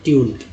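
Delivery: ट्यून with a gliding "yoo" vowel. Shown as a demonstration. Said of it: "यू को ई यू बोलते हैं".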